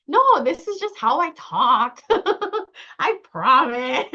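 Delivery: high, drawn-out defence breaking into laughter; laughing protest. Retold or imitated. Defending her way of talking to her partner, laughing protest. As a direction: protest slowly through giggles.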